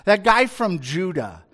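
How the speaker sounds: lightly mocking, drawn-out acted quote; a pompous king's casual put-down. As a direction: talk down to him with mild mockery. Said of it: "he kind of mocks him".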